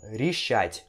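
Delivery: решать com o E soando como I, "richát"; pronúncia com som de I. Shown as a demonstration. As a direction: say решать slowly, first vowel as a clear I. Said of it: "você pronuncia assim, ó". (решать devagar, com som de I na primeira sílaba)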